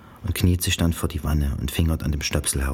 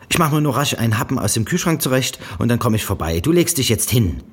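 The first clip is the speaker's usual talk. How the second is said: herrische Mutter; 7 semitones higher, 5 dB louder than usual. A narrator's reading. Mutter kommandiert Janice.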